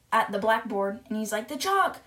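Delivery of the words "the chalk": high-pitched retold cry of alarm; acted panicky exclamation; mock scream. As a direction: cry out like a hysterical pupil, without full volume. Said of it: "looking at the chalk and screaming".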